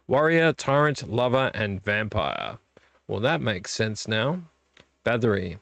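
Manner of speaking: slow read in a put-on southern accent. Vlogger reading a horror movie's cover, southern accent. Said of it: "I'm gonna stick to it".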